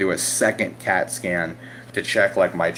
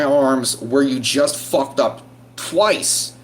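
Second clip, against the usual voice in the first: higher, indignant complaint; exasperated scolding; 5 semitones higher than usual. Retold or imitated. Patient to staff wanting another needle, exasperated scolding. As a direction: protest in disbelief, stretching the key words.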